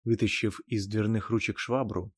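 ordinary delivery

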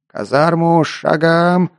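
slow, high drawn-out command; drill command. Acted. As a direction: call the march like a drill sergeant. Sergeant orders march.

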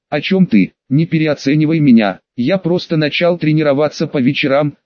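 ordinary delivery

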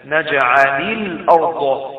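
"نجعل الأرض" drawn out slowly as naj'alil-ard; linking kasra. Shown as a demonstration. Teacher repeats the joined words for students, linking kasra. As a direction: join "نجعل" to "الأرض" with an i on the lam. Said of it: "نحرك اللام بحركة عشان".

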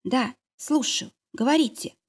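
just woken, hoarse and drowsy; a hint of a sick, half-asleep woman answering the phone; sleepy hoarse voice. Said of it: "хриплым и сонным голосом".

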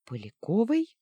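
недоуменный вопрос, выше и громче; переспроси, хмурясь; нахмурившись. Acted. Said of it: "нахмурилась я". (хмурое недоумение)

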